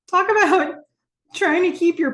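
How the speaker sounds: high, loud laugh spilling into words; giggling aloud. Real, not acted. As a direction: laugh through the start of the line. Still laughing at scene.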